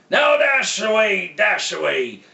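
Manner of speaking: calling out. Acted. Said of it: "called them by name".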